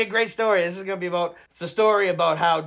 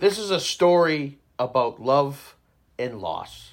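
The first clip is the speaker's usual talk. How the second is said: mock epic narrator. Podcaster teases the group with a fake epic story opener. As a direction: intone it like a grand saga opening, tongue in cheek. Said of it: "I'm just messing around".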